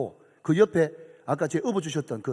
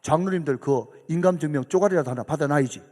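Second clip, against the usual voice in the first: put-on a touch of Gyeongsang accent; lightly voiced Busan man in Gyeongsang dialect; wealthy Busan donor advising in mild Gyeongsang dialect. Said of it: "경상도 사투리 씁니다".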